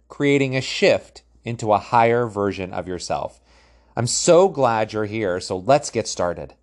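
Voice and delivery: polished, projected programme introduction; scripted intro read. Acted. Coach introducing a training programme to listeners, scripted intro read. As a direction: read it like a welcome announcement.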